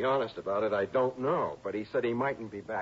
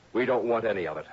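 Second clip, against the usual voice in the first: louder, a firm final no; emphatic refusal; 4 semitones higher, 6 dB louder than usual. Acted. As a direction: push the money away with your voice. Paul refuses the tainted money.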